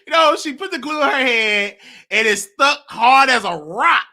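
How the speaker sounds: high giggle bubbling into the words; giggling while telling the story; laughing. Real, not acted. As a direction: laugh through it, can barely get it out. Laughing at Gorilla Glue story.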